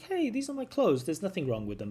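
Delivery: acted indignation, starting very high; offended protest. Teacher acting out offence at a friend's advice, indignant. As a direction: protest in mock offence, pitch jumping up then settling. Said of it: "I was a bit offended at first".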